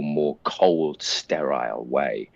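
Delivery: slow, measured cold delivery; cool, deliberate villain precision; cold, sterile. Shown as a demonstration. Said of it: "it comes across in a more clipped".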